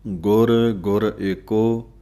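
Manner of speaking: ਗੁਰ ਗੁਰ ਏਕੋ said slowly, each ਗੁਰ set apart; separated words. Shown as a demonstration. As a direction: pause between ਗੁਰ and ਗੁਰ, slow and firm. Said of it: "ਨਖੇੜ ਕੇ ਬੋਲਣਾ ਹੈ". (ਗੁਰ ਗੁਰ ਨਖੇੜ ਕੇ ਹੌਲੀ ਬੋਲੋ)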